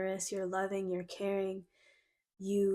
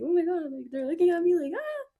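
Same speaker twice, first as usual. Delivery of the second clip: squealing excitement; 9 semitones higher, 3 dB louder than usual. Retold or imitated. Inner child overwhelmed by adoration.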